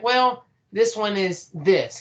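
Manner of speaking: slow, mildly let-down demo; disappointed. Shown as a demonstration. Coach demonstrating a disappointed tone on a weaker calf, mildly let down. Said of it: "Kinda sound disappointed".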